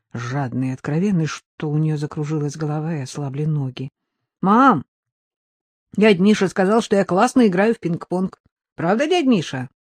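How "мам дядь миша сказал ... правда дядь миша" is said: put-on high, eager little boy; young boy voice. Son tells mother about ping-pong, in a high boyish voice. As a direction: chirp it like an excited kid.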